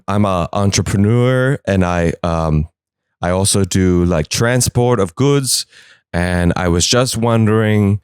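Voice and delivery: a lightly voiced awkward drug smuggler stumbling through his question; shady trafficker voice. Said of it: "drug traffickers will go to it".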